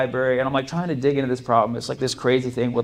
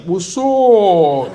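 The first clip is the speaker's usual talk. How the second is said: higher goofy greeting from a vision; a playful hallucinated hello; lightly voiced Pythagoras; 6 semitones higher, 8 dB louder than usual. Pythagoras greeting the stoned student, light goofy voice.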